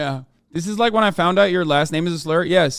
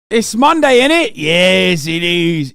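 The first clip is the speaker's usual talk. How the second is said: mock British; 3 semitones higher, 5 dB louder, slower than usual. Jokey British tag after rant.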